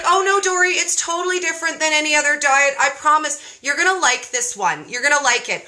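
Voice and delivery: bubbly, fast-talking imitation of a pleading friend; mock-pleading with a hurried, eager lift; pleading girlfriend. Girlfriend pleading about keto diet.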